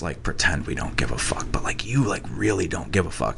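confiding hushed whisper; drunk punk whisper. Retold or imitated. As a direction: lean in and whisper it. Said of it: "pulled me aside and been like".

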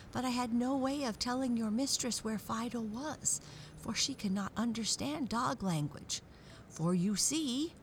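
high, earnest dog voice; worried dog voice. Acted. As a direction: explain it like a worried friendly dog. Peterkins the dog explains.

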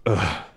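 short throaty grunt; mock groan into the phone; imitated groan. Imitating Triple H grabbing the phone, brief groan. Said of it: "he grabs the phone and goes".

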